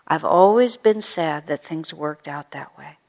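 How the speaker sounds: slow, kind and sincere; gentle sincere regret. Shown as a demonstration. Teacher repeating Paula's words as a model, slow and kind. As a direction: offer it as common ground, gently. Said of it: "finding a way to say it".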